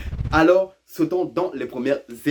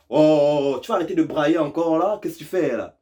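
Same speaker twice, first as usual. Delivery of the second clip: mock scolding; 4 semitones higher, 3 dB louder than usual. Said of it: "quand t'entends quelqu'un".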